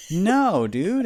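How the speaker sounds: put-on high, loud whiny kid; mock kid protest. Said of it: "And I was like".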